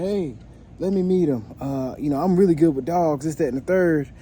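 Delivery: imitating cocky neighbor. Retold neighbor bragging about dogs.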